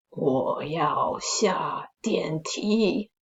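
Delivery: very slow, eerie whispering stranger; a ghost murmuring from behind; ghostly whisper. Acted. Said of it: "这个人跟他说".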